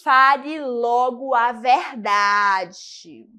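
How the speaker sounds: slow, firm demand, staring him down; stern demand. Shown as a demonstration. Teacher demonstrating a parent demanding the truth, slow and firm. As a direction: press him to tell the truth. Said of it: "olha bem nos olhos do caboclo e diz".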